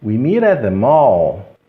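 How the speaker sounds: "meet at" linked in a slow run; consoantes ligadas. Shown as a demonstration. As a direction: link "We meet at the mall" without breaks. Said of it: "eliminar esse T e falarmos apenas uma vez". ("meet at the mall" lento e ligado)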